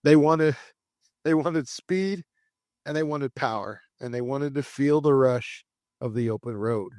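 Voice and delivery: deliberate documentary-style storytelling; scripted narration. Acted. Host telling listeners of the hunger for speed, scripted narration. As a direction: build the era phrase by phrase. Reads scripted car history.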